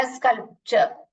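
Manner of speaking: स्कल्पचर in two parts, "skal-cher"; model pronunciation. Shown as a demonstration. Teacher showing pupils the sound, careful pronunciation. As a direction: say स्कल्पचर clearly with a short "cher" ending. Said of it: "एल का sound नहीं आ रहा".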